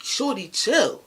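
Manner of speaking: loud, drawn-out plea to calm down; retold exasperated protest; acted protest. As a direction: fend her off, high and loud. Acts out friend telling her off.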